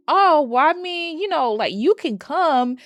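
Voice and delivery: high, loud flustered stammer; caught-out backpedal. Retold or imitated. Bear caught lying to Nikki, flustered high backpedal. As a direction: scramble to cover the lie.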